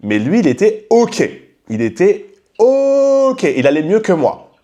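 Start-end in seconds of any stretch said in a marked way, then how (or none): 1.7-3.4 sing-song mocking repeat, slowed way down; high drawn-out mock. Host mocking that the man was fine, drawn out high. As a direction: stretch "Il était ok" very high and very slow.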